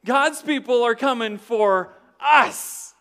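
high, loud, slow mock panic. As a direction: cry it out like frightened townsfolk. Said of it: "They were like".

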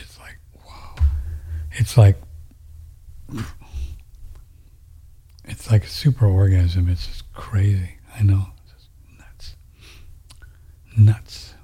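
words stretched through a yawn. Real, not acted. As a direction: talk mid-yawn, breathy and hushed. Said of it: "now you yawn more".

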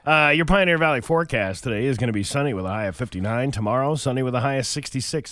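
brisk radio weather read; radio news read. Acted. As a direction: read it like a morning DJ.

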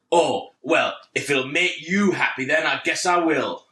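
grudging, sarcastic compliance. Retold or imitated. Parent giving in over the headphones, sarcastic. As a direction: give in with mock helpfulness. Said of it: "he's obviously being sarcastic".

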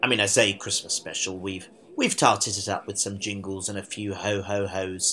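blocked nose, nasal voice; talking through blocked sinuses. Real, not acted. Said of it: "why do I sound so nasal".

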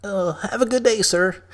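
a hint of nervous politeness; nervous backing off. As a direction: squeak out a scared goodbye.

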